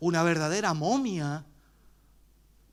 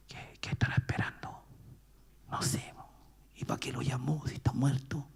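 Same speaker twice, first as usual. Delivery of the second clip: murmullo apagado y escéptico; susurro de la gente; 6 semitones lower, 9 dB quieter than usual. Retold or imitated. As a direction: cuchichean dudando. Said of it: "lo susurro de la gente". (la gente susurra incrédula en el funeral)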